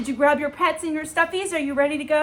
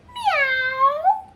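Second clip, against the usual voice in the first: high, drawn-out meow; storybook dog meowing in a high voice; cat meow. A narrator's reading. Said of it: "And George went".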